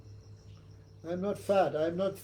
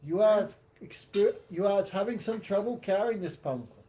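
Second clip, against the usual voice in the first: sarcastic king, lightly acted; mock sympathy; 3 semitones higher than usual. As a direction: lay on pretended concern for the servant. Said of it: "spoke many sarcastic words to Bharat".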